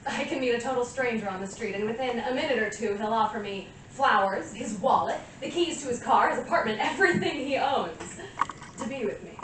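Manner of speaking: building, self-admiring brag; boastful. Acted. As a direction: brag with rising pitch and force. Monologue boasting of power over strangers.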